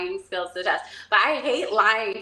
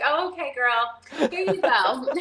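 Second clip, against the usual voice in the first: imitated casual mom; 4 semitones higher than usual. Mom waves her daughter off, mock casual. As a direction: toss it off casually, like an unbothered mom. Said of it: "the most cash".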